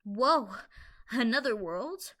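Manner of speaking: lightly intrigued, pondering; deeply interested. A narrator's reading. Capper hearing of another world, mildly intrigued. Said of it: "deeply interested".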